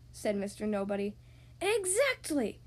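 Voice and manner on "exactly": high, emphatic exclamation; mock shout of triumph; acted shout. Wizard seizing on Nobody's words, shouting triumphantly. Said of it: "shouted the wizard at the top of his voice".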